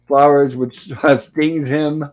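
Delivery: slow, laughing through the words; can't finish the line without laughing. Real, not acted. Recapping the bee sting to viewers, slow and laughing.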